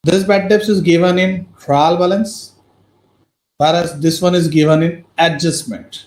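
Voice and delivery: very slow, measured teacher dictation. Real, not acted. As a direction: spell it out slowly, phrase by phrase, with pauses. Teacher dictating notes for class. (धीरे-धीरे, रुक-रुक कर notes लिखवाते हुए)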